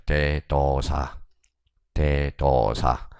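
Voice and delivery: very slow, syllable by syllable; slow dictation. Shown as a demonstration. Teacher has students write a mnemonic, very slow dictation. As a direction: stretch out each syllable for note-takers.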